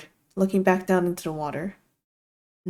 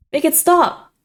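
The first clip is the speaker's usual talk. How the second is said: much higher, louder desperate scream; cracking scream; 10 semitones higher, 7 dB louder, slower than usual. A narrator's reading. Iggy begs the voice in his head to stop, screaming. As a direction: let the voice crack as you scream it. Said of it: "My vocal cords crack with the words".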